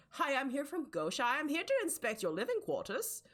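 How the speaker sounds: high-pitched, chipper official announcing himself; mock inspector's sing-out, no real accent; dwarf inspector. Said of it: "who is a dwarf".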